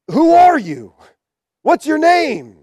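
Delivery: lightly acted emperor demanding an answer. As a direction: put the question like a ruler halting the show. Emperor questioning the martyr in story.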